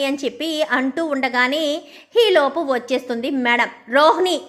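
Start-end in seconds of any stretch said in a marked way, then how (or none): 3.9-4.4 mildly raised retold call of the name; loud call. Boss calls the worker's name into the room, mildly loud. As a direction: call the name out sharply, half-acted. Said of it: "అంటూ గట్టిగా పిలవడంతో".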